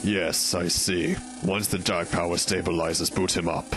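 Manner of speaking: low, measured royal command; regal voice. Acted. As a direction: give orders like a cold king. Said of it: "my regal voice".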